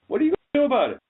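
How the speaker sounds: shouting. Acted. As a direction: yell the challenge at them. Repeated challenge, second louder.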